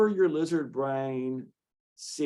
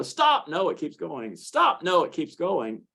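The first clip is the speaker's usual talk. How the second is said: lizard brain panicking; 5 semitones higher than usual. Retold or imitated.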